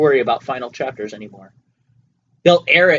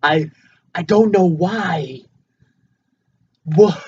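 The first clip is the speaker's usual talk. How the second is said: high, slow, halting impression; Christopher Walken; 5 semitones higher, slower than usual. Shown as a demonstration. Podcaster showing co-host an actor impression, high and halting. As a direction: stretch it out high with odd gaps. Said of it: "a Christopher Walken impression".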